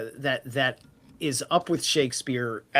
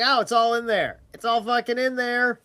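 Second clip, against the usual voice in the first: higher and louder, thrilled self-quote; excited exclaiming; 9 semitones higher, 6 dB louder than usual. Retold or imitated. Recalling his own thrill at finding Hamlet in old sagas, high excited exclaim. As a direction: burst out like a big discovery. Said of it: "It's like".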